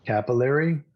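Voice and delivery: one word at a time, clearly separated; staccato. Shown as a demonstration. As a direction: say each word alone for the class to repeat. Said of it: "one word at a time".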